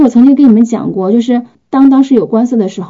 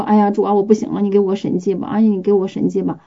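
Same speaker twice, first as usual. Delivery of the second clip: whiny mock plea; 5 dB quieter than usual. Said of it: "然后就说".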